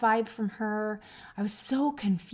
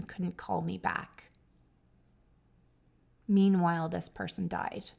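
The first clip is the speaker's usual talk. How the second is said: moved; 3 semitones lower than usual. Real, not acted. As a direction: let the grief weigh it down. Reflecting on death, emotional.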